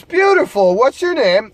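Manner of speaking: high, delighted come-on; eager pickup line. Retold or imitated. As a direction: pounce on her answer with high-pitched delight. Acts out drunk friend's pickup line.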